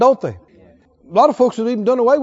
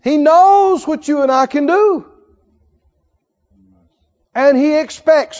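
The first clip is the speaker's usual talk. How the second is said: preaching at full force; 4 semitones higher, 4 dB louder than usual. Acted.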